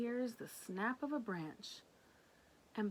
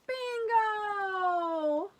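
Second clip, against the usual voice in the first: high, loud joyful call; excited cry; 12 semitones higher, 11 dB louder than usual. Acted. Reader calling the found dog's name, high and joyful. Reads capital word with excitement.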